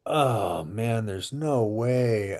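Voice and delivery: low, drawn-out groaning dismay. Retold or imitated. Salesman thinking to himself at the square faucets, dismayed. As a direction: let it sag slowly, sinking in disbelief.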